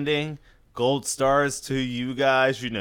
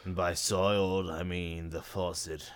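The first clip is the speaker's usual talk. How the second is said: sultry low voice; 4 semitones lower than usual. Pretend. Mock sultry confession.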